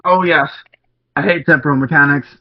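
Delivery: put-on hammy stage Irish accent; a clumsy mock Irish lilt; bad Irish accent. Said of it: "That was a, that was a bad Irish accent".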